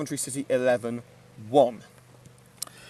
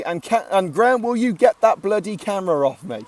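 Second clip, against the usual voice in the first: raised, half-laughing protest at the cameraman; mock exasperated; 5 semitones higher, 4 dB louder than usual. Real, not acted. Commentator calling out to the cameraman, mock exasperated. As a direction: tell the friend filming to stop, loud and exasperated.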